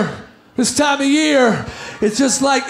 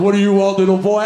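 lower, booming mall Santa; deep Santa voice; 9 semitones lower, faster than usual. Retold or imitated. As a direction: play Santa, low and jolly, to the boy. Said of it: "Santa's going".

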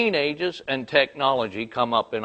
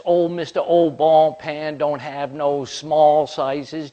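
louder, dragging the mocking name; slow mocking rant; 4 semitones higher, 4 dB louder, slower than usual. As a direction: spit out the nickname slowly with scorn. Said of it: "starts to unload".

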